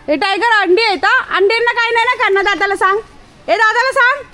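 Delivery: high, loud coaxing voice for a pet; sing-song scolding of a dog; talking to the dog. Real, not acted. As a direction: owner telling the dog to leave the pigeons. Talking to dog about pigeons.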